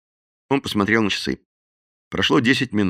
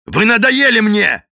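higher, louder, slow angry bark; 10 semitones higher, 5 dB louder than usual. A narrator's reading. Madden losing patience with Bob, loud slow bark. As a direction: snap at him, fed up. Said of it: "рявкнул Мадден".

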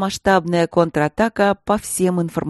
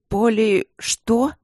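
anxious; 5 semitones higher, much slower than usual. A narrator's reading. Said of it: "спросила королева с тревогой".

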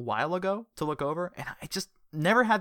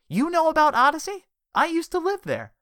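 high, loud amazed voice; surprised; 9 dB louder than usual. Acted. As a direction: gasp out the news in disbelief.

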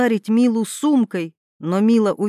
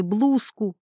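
ordinary delivery, nothing marked

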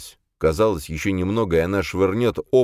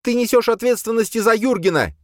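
high, louder squealed cry; shrill squeal; 4 dB louder than usual. Acted. Boya shrieking at Khranka, high and loud. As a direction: squeal it at him. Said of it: "взвизгнула Боя".

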